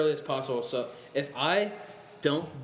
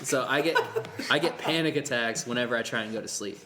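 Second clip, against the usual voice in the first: talking through a laugh. Real, not acted. Laughs while explaining pills.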